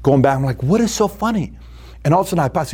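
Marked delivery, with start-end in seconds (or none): 0.6-1.5 higher-pitched indignant challenge; confronting. Retold or imitated. Speaker challenging two laughing girls in the front row, indignant. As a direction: demand an answer from the gigglers.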